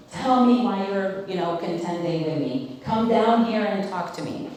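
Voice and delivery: mildly stern retelling of Job; stern, bold demand. Retold or imitated. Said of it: "Job spoke pretty sternly to God".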